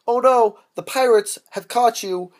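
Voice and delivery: hammed-up movie-trailer dismay; mock alarm. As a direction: play up the disaster. Mock alarm in retold movie plot.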